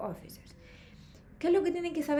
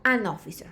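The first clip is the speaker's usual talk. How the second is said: AN given clear weight before officer; stress on AN; 4 semitones lower, 6 dB louder than usual. Shown as a demonstration. Teacher showing the vowel rule, stress on AN. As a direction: punch the article AN. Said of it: "en el caso de officer empieza con O".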